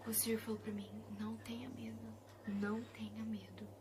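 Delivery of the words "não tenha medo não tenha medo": soft reassuring whisper; soothing divine whisper; gentle whisper. Retold or imitated. The Lord comforting her.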